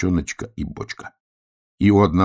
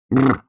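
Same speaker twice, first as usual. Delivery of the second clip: higher, louder echoed brr; teasing brr; 8 semitones higher, 6 dB louder than usual. Acted. Hedgehog echoing the bear cub, teasing higher brr. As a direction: mimic the brr back, higher. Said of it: "Ты чего дразнишься".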